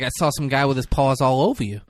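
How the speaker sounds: lightly imitated accent of a tough-guy actor; a rapper's accent. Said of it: "my rapper accent".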